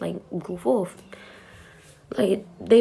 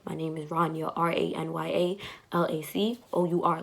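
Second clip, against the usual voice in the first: calm tone; 3 dB quieter than usual. Retold or imitated. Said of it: "I said it with the same calm tone".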